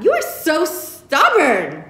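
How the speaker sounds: high, slow, laughing teasing mother; laughing tease. Acted. Mother laughing at her stubborn daughter, teasing.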